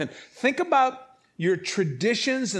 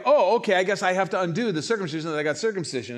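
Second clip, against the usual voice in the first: mock sheepish quote; faster than usual. Mocking regretful believers.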